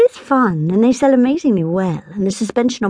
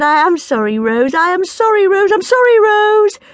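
apology growing higher and louder each time; building apology; 13 semitones higher, 5 dB louder than usual. A narrator's reading. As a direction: keep saying sorry, more frantic each time. Kieran apologizing, rising each time.

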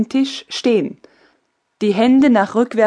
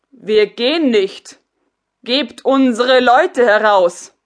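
defiant soldiers; 5 dB louder than usual. Acted. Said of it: "schrien sie tumultuarisch durcheinander".

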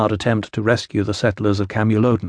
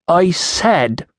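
put-on higher, insistent Iceni-accented voice; louder, accented repeat; 6 semitones higher than usual. A narrator's reading. Woman repeats herself to the official who missed it, mildly louder. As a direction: repeat it firmly, only a little louder, in accent. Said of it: "louder rather than slower".

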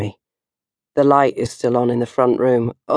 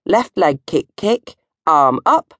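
dance call; 3 semitones higher, slower than usual. Shown as a demonstration. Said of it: "the Viking disco inferno dance goes".

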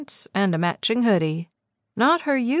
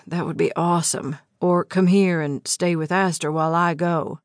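a hint lower, tense man's voice; lightly voiced man; 3 semitones lower than usual. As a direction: read Eli a little lower, held-in anger. Eli listing needs.

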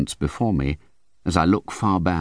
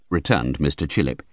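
usual speaking voice

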